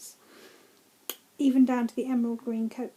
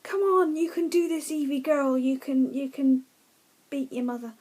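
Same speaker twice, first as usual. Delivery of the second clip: cheering on; 2 semitones higher than usual. Retold or imitated. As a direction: urge the heroine on like a fan at ringside. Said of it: "I'm just like".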